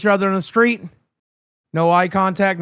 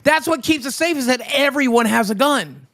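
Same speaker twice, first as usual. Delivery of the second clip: higher-pitched, insistent put-on voice; mock-earnest high voice; high-voiced character; 7 semitones higher than usual. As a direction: lecture the newcomer in a squeaky character voice. Plays a high-voiced character in practice.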